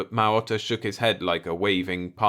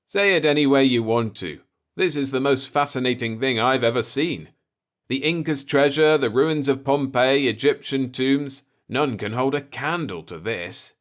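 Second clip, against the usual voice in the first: louder, eager voice marvelling at the ruins; enthusiastic explorer; 6 semitones higher, 5 dB louder than usual. A narrator's reading. Explorer marvels at the ruins to the native, excited. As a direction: let the wonder spill out.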